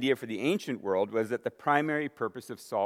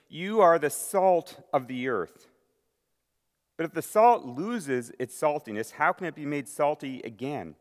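raised, solemn reading of the passage; scripture reading; 2 semitones higher than usual. Acted. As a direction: read it out to the church with weight. Reading scripture aloud to congregation.

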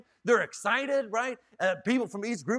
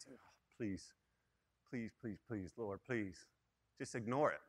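hushed, much softer pleading prayer; desperate inner plea; 10 semitones lower, 14 dB quieter than usual. Retold or imitated. Pastor silently begging God, a hushed desperate plea. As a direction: beg under your breath, barely audible.

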